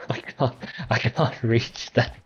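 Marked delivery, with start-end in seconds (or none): 0.0-0.6 whispered laugh. Real, not acted.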